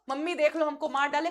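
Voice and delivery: mock child wail. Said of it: "खूब चिल्ला के रो".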